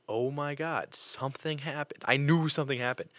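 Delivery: mildly panicked retelling; retold alarm. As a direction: replay a sinking, worried realization. Retold dread at being sat down.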